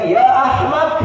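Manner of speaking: high, loud mock Arab curse; mock angry insult. Teacher imitating an angry Arab cursing someone. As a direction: spit out the insult in mock anger. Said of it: "itu marah gitu".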